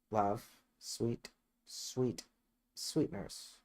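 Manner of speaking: soft coaxing murmur, dropping to breath; wheedling softly. Acted. Juliet wheedling her nurse for news, hushed and coaxing. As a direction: sweet-talk the nurse, barely voiced.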